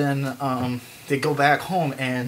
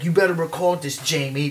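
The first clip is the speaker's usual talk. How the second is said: lightly done French archaeologist; a touch higher and louder, mock French accent; 3 semitones higher, 4 dB louder than usual. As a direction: put on a slight French accent. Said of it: "um, French".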